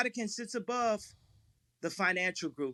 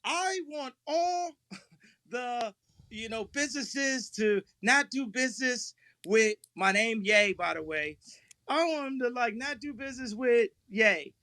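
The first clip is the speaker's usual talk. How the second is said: imitating Ari Emanuel; 3 semitones higher than usual. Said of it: "here I am. I'm Ari Emanuel".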